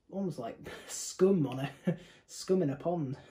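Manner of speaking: laughing through the words; giggling while describing it. Real, not acted. Laughing at the foam on beer.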